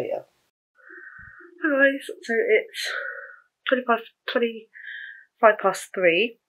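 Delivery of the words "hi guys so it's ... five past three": breathless after a walk; out of breath. Real, not acted. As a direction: talk while catching your breath. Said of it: "excuse me, I'm out of breath".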